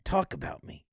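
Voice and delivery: a pushy dead grandpa urging her on, laughing; voicing grandpa Marvin. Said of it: "hearing my grandpa be like".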